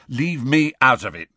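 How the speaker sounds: hasty backing out. A narrator's reading. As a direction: blurt it to get out of trouble. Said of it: "said Ron hastily".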